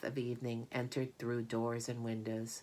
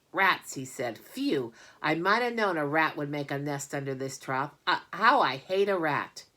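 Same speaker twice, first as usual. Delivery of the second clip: disgusted farmhand; 6 dB louder than usual. Acted. Lurvy disgusted at rat.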